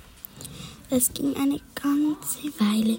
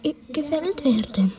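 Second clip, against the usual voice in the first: sobbing; 4 semitones higher than usual. Acted. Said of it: "sagt der Baum schluchzend".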